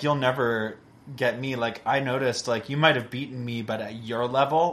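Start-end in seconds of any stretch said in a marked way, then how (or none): none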